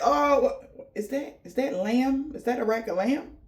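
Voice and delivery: hammed-up ancestor gasping at the lamb; amazed ancestors. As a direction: marvel at the spread like it's a feast. Ancestors marvelling at the food.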